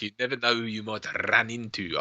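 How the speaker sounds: lightly imitated South African accent. Recalling a film bad guy to a co-host, mock South African accent. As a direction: quote the villain with a touch of South African. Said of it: "he did a South African accent".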